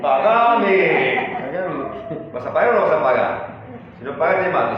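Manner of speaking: acted-out loud creditor's demand; threatening demand. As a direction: play a creditor demanding his money. Acts out creditor grabbing debtor.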